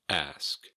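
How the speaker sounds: "Ask." with S before K; a careful "Ask." as a model word; correct S-K order. Shown as a demonstration. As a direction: finish "Ask." on S then K. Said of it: "not axe".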